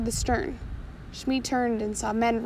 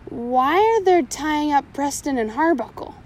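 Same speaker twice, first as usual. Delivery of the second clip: timid; 3 semitones higher, 4 dB louder than usual. Acted. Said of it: "said Shmee very timidly".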